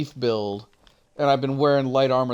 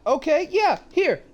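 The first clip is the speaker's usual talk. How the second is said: high, pointed "okay, yeah, here"; mock triumphant, pitched up; sarcastic "here"; 12 semitones higher than usual. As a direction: shove the book at him with sarcasm. Retold showing him the book.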